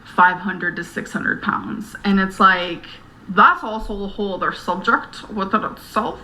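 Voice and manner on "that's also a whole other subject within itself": odd voice slipping out unplanned; odd accidental voice. Real, not acted. Video maker sidetracked by another subject, odd accidental voice. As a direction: let the pitch jump oddly mid-sentence. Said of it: "I don't know where that voice came from".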